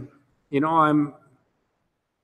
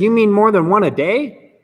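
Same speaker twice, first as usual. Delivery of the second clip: higher and louder, astonished; incredulous question; 5 semitones higher, 5 dB louder than usual. Retold or imitated. Newcomer amazed to hear of hourly meetings, incredulous. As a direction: act amazed that there are more meetings.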